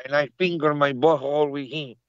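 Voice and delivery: mock Latino accent; put-on Colombian accent. Co-host's street corner tale, in a mock Colombian accent. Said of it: "We sound extra Colombian now".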